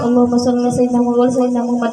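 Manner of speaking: rattled off very fast, Allahumma run together; quick chanted prayer during chores; rushed sholawat. Shown as a demonstration. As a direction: mumble it quickly while sweeping. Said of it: "lagi nyapu sampah".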